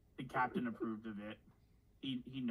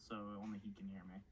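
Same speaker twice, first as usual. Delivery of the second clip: leaning in to whisper; 3 semitones lower, 8 dB quieter, faster than usual. Pretend. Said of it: "I'm saying this hush whisper tone".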